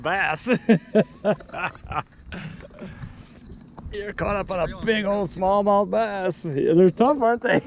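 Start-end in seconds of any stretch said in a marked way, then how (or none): 3.9-6.5 slow sing-song. Real, not acted. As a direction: sing it back playfully and slowly. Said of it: "said again".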